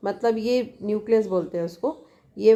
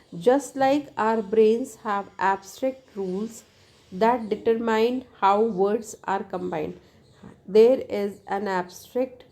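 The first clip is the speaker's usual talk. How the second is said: slow textbook reading; much slower than usual. Acted. Reads English textbook text slowly.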